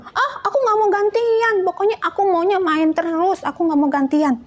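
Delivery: put-on high, whiny childish refusal; stubborn refusal. Child refusing to take turns playing, whiny and stubborn. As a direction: dig in your heels like a spoiled kid. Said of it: "marah-marah-marah".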